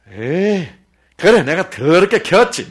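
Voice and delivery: loud, resentful mock sigh of defeat; grumbling give-up quote. Preacher mimics a parent giving up, loud and sulky. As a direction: blurt it out like a fed-up parent. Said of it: "막 이러면 안 옵니다".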